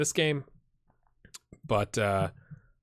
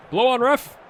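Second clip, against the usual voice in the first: yelling from the sidelines; 12 semitones higher, 9 dB louder than usual. Real, not acted. Begging the referee to whistle.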